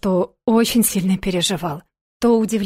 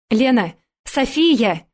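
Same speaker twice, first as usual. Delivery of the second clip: barked calls; 3 semitones higher, slower than usual. Acted. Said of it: "рявкнули где-то поблизости".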